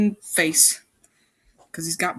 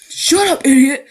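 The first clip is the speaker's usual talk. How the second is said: whisper yell; 6 semitones higher, 8 dB louder than usual. Acted. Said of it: "He whisper yelled".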